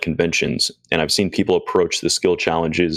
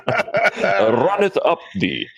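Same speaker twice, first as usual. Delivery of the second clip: laughing; 11 semitones higher, much slower than usual. Pretend. Joking archaic voice, laughing.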